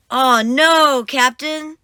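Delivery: high, loud cry of alarm; alarmed shout. Acted. First mate shouting to the captain that a storm is coming, loud. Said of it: "shouts First Mate Callie".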